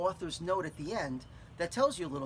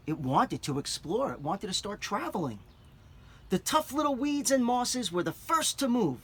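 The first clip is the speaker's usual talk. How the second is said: put-on clear, expressive read-aloud for children; story narration. A narrator's reading. Teacher reads picture book aloud.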